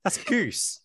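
can't believe what she said; shocked disbelief. Retold or imitated. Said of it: "I was like".

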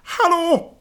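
high, loud yell through a door; shouting. A narrator's reading. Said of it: "Sickans röst skriker".

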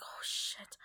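hushed, appalled whisper; whispered dread. Retold or imitated. Seeing vomit on the restaurant floor, whispered dread. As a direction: swear softly to oneself.

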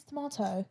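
"tomato" as tuh-MAH-toe; broad ah in the middle of "tomato"; British pronunciation. Shown as a demonstration. Host weighing word variants, saying "tomato" as tuh-MAH-toe. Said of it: "British people say tomato".

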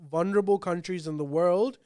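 ordinary talk

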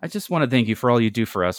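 put-on lightly smarmy boy buttering up mom; smug. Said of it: "Ferguson says smugly and grinning".

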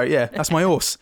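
a light Cockney "that's my horse"; hint of a Cockney accent; mock Cockney. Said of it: "it sounded Cockney to me".

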